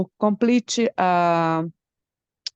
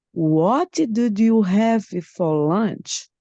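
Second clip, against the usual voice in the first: slow question with a lift on 'you'; changed intonation, drawn out; slower than usual. Shown as a demonstration. Student trying another intonation for teacher, slow drawn-out question. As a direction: stretch out 'What did you', lifting 'you'.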